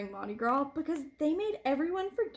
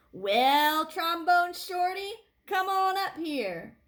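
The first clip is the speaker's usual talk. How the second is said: stage invitation; 6 semitones higher, 5 dB louder, slower than usual. A narrator's reading. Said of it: "a singer said".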